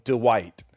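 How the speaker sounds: Dwight split as Duh-white; imitating Dwight said as Duh-white; two syllables. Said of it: "always called him Dwight".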